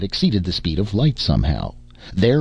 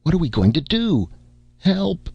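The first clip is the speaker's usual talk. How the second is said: panicked cry; 12 semitones higher than usual. Acted. Crew panicking as walls crack.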